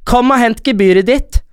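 retold shouting. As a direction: call someone over, imitating a conductor. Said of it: "Så roper hun".

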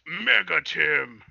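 a hint of slow anime announcer; lightly hammed-up, very slow reveal; mock evolved-form announcement. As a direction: draw out the new form's name.

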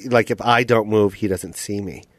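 a hint of an Asian accent, imitated; lightly Asian-accented raccoon. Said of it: "I don't know why I made him Asian".

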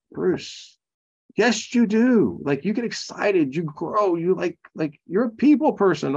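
sing-song the wife's insistence; mock wife voice.

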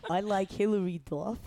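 put-on amused go at a Boston accent; badly faked Boston accent. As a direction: attempt a Boston accent, half laughing. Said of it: "Do your Boston accent".

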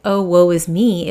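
mock melodrama. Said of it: "not like".

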